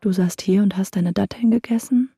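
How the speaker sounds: menacing whispered question; whispering jinn. Acted.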